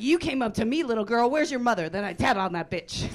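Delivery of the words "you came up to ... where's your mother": put-on loud, high, outraged scolding of a kid; mock-furious yell at a little fan; indignant mock yell. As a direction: shout at the little girl like a scandalized adult. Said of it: "I was like".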